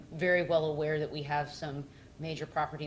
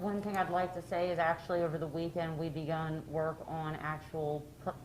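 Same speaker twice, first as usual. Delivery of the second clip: muffled voice, as through a bad mic. Real, not acted. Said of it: "sorry, this is really muffled".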